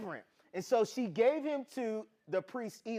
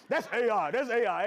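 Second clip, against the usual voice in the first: laughing; 4 semitones higher, 6 dB louder than usual. Real, not acted. Joking and laughing with audience.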